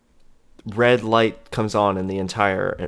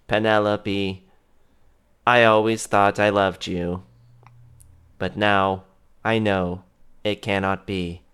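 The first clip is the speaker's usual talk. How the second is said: lightly voiced villain; 3 semitones lower, 3 dB quieter, slower than usual. Villain over the intercom.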